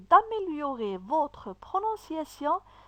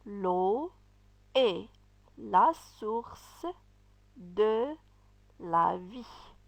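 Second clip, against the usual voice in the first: repeated model reading; much slower than usual. Shown as a demonstration. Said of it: "nous allons lire une phrase".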